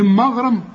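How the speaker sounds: مغرم with the غ heavy and emphatic; teacher's demo of maghram. Shown as a demonstration. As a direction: say مغرم with a thick, emphatic غين. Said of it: "فهم من إيه بقى".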